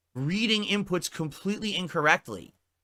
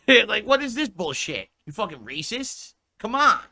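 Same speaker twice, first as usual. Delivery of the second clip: higher-pitched, indignant protest with a laugh; mock outrage; 5 semitones higher than usual. Offended customer reacting to a liquor coupon, mock outrage.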